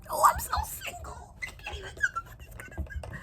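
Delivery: very high squeaky lament; mock whine. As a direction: squeal it like a dramatic single girl. Whining about being single.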